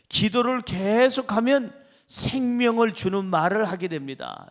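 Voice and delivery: rising, emphatic lead line for the congregation; preacher's lead line. Shown as a demonstration. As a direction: say it out firmly for them to repeat. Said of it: "시작". (설교자가 먼저 힘있게 읽어주는 문장)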